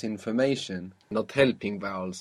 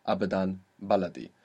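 "abadan, baladi" with A and BA stressed; low voice, weight on the first syllable of "abadan" and "baladi"; 3 semitones lower, faster than usual. Shown as a demonstration. Teacher repeats the rule-breakers, stressing the starts of abadan, baladi. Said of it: "they're breaking the accent rule".

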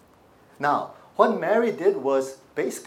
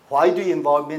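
louder, insistent why do you involve me; emphatic repeat; 7 dB louder, faster than usual. Acted. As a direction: press the question harder. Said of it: "this is what Jesus had to say".

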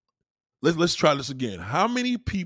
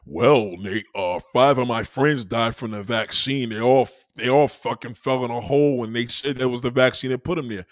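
mocking anti-vaxxer; 4 semitones lower than usual. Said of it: "Anti-vaxxers, this is your stage".

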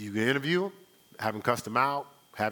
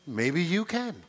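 sarcastic; slower than usual. Real, not acted. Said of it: "Yes, I'm being sarcastic".

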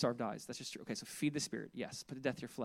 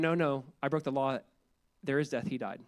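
calm, settled reply; 2 semitones lower than usual. Retold or imitated. The speaker answers the panicked sinner, calm and assured. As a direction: gently set the record straight. Calm Calvary-style repentance.

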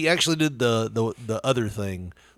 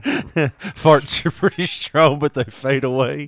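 mock old philosopher; 2 semitones higher, slower than usual. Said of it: "old philosopher".

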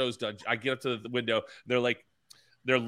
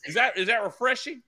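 put-on hick Southern accent; 9 semitones higher, 5 dB louder than usual. Customer pranking drive-thru staff, high loud Southern accent. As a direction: play a clueless Southern yokel at the window. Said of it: "I'll do different voices at the window".

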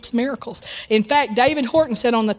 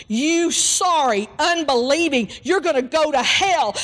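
retold attack; 5 semitones higher than usual. Evangelist retold rebuking the woman in a mild mock tirade. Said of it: "He attacked her".

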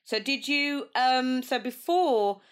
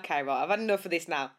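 mock fed-up; 5 semitones lower, faster than usual. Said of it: "you might just be like".

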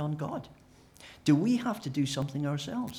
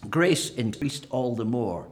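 louder, slowing on the quoted verse; imagined reader; 5 dB louder, slower than usual. Retold or imitated. Imagined Roman reading Paul, louder and slow. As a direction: read the verse out with relish, slowly. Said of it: "He imagines somebody saying".

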